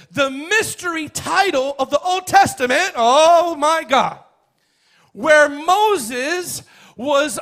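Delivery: high, loud, fervent preaching; full-force preaching. Real, not acted. Preacher telling of Moses approached by God, full-force preaching. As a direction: preach it loud, stretching the big words.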